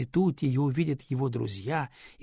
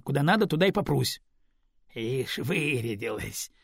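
usual speaking voice

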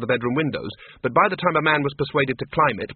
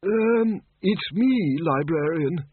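high, raised call through a door; calling through keyhole; 5 semitones higher, much slower than usual. Acted. Windle calls to the librarian through a keyhole, raised. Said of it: "trying to shout through the keyhole".

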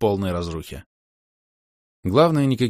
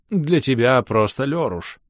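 cheerful; 5 semitones higher, 3 dB louder, slower than usual. Acted. Mayor beams broadly.

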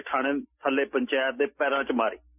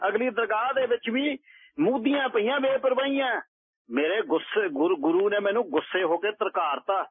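pleading sadhu; 7 semitones higher than usual. A narrator's reading. Baba begs alms from women.

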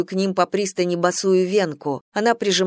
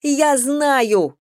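high shout of Я знаю; girl shouting back at the general; 7 semitones higher, 3 dB louder than usual. A narrator's reading. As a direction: cry it out at him. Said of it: "выкрикнула Венка".

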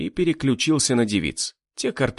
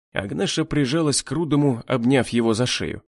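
plain reading voice

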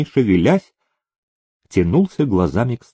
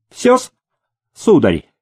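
higher, harsh creaking voice; sharp creak; 7 semitones higher, 3 dB louder than usual. A narrator's reading. Dealer ends the game, harsh and creaking. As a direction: snap it out like a rusty hinge. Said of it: "резким голосом проскрипел банкомёт".

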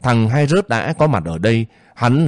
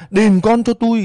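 wailing demand; 11 semitones higher than usual. Acted.

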